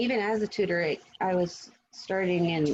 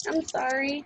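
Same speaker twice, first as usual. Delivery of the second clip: whispered apology; 7 semitones higher, slower than usual. Real, not acted. Apologising as first visitor.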